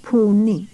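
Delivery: teacher stressing Puni for the class; Puni with a puffed p. Shown as a demonstration. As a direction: hit the p of Puni with breath. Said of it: "and we say puni".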